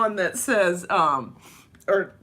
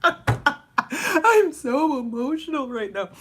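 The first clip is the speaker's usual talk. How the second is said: emotional, drawn out; 5 semitones higher, slower than usual. Shown as a demonstration.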